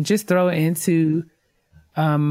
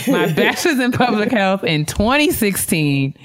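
higher, emphatic reread with a laugh breaking in; emphatic corrected reread; 5 semitones higher than usual. Real, not acted. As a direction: restart the line firmly after fumbling it. Redoing a line just misread.

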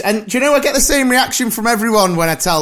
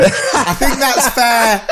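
laughing tease; 5 semitones higher, much slower than usual. Real, not acted. Teasing co-host, laughing.

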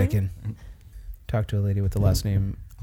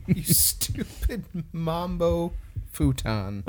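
goofy voice; 5 semitones higher, 6 dB quieter, much slower than usual. Pretend. Softer goofy variant.

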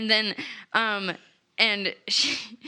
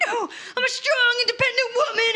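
high, laughing declaration; laughing mock defiance; 11 semitones higher, faster than usual. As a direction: proclaim it through giggles. Lila defiant in retold scene.

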